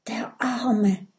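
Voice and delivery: soft pitying whisper. Acted. Mathilda pities the sobbing Viking, whispering. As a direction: breathe it out with pity. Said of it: "flüstert Mathilda".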